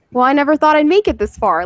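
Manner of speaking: a hint of stunned villain at the finish line; Plankton. Quoting a SpongeBob episode to friends, lightly imitating. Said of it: "that's literally what he says".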